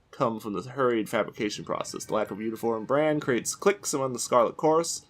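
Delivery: even, brisk read of game lore; reading aloud. Real, not acted. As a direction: read the item text straight through. Reads item description aloud.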